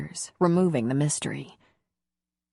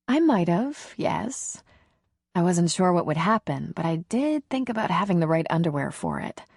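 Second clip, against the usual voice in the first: lightly voiced nervous woman. Woman admitting to her lover that she planned ahead, lightly voiced. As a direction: lightly play a woman making an admission.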